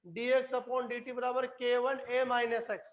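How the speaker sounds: slow, measured formula read-out; slow dictation. Real, not acted. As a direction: read the equation out slowly for note-takers. Teacher reading equation out for class. (समीकरण धीरे-धीरे पढ़ते हुए)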